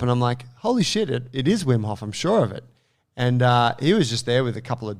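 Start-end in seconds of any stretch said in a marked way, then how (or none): 0.6-2.6 surprised. Retold or imitated. Excited recognition of Wim Hof.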